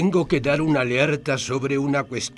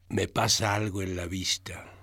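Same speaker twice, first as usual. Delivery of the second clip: whispering; 7 semitones lower, 6 dB quieter than usual. Acted. Doctor confesses blindness to wife.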